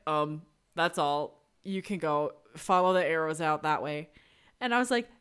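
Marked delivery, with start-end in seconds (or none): 0.1-4.1 awkward vaccinator. Retold or imitated. Awkward vaccinator dismisses patient.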